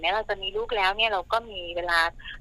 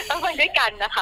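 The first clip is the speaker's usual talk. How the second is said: laughing; 6 semitones higher, 5 dB louder than usual. Real, not acted. Laughs at her own joke.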